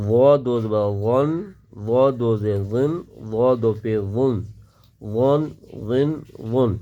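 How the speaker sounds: ظا read full and heavy; teacher drills the heavy ظا. Shown as a demonstration. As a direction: give غن a thick, heavy sound. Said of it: "یعنی غن موٹی آواز کے ساتھ".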